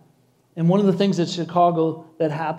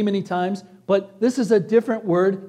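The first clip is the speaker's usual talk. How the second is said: ordinary delivery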